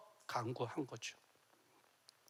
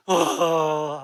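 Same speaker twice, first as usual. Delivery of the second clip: mock wail; 10 dB louder than usual. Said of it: "하고 우세요".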